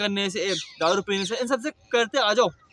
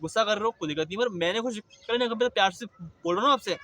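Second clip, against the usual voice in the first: said with love. Retold or imitated. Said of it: "प्यार से बोलने का कि".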